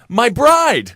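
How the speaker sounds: mock scream. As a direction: cry it out in mock melodrama. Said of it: "make sure to scream".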